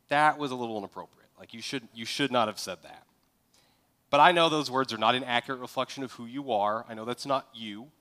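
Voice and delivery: calm, encouraging correction; gentle exhortation. Shown as a demonstration. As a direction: correct him kindly, like family. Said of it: "what that exchange might sound like as an exhortation".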